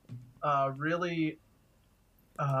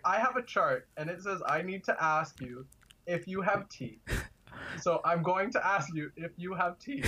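put-on Jamaican accent; 4 semitones higher than usual. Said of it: "thick Jamaican accent".

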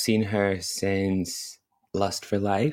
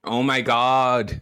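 drawn-out delight; 3 semitones higher, 4 dB louder, much slower than usual. Real, not acted. Nostalgia for lost chocolate bar.

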